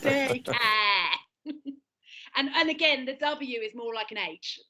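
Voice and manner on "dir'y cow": slow "Dirty care" with drawn-out vowels; long London vowels. Shown as a demonstration. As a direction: stretch "Dirty care", barely sounding the T. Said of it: "Your vowels get really long".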